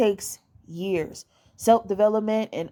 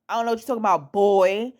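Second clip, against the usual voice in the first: put-on "boy" set off at the end and punched louder; emphatic BOY; 3 dB louder, faster than usual. Shown as a demonstration. Showing women how to talk down to a man, emphatic "boy". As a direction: land hard on "boy" as a put-down. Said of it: "say it with so much emphasis".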